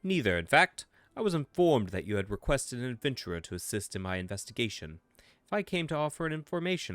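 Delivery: lightly voiced formal English officer; brief them like a measured English commodore; a hint of a proper English gent. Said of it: "Proper English gent".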